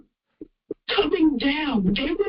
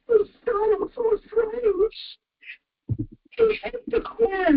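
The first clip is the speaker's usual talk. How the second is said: crying; 3 semitones higher than usual. Real, not acted. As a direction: voice breaking with tears while recounting. Crying while telling shooting.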